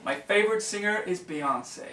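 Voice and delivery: British speaker's American accent try. Shown as a demonstration.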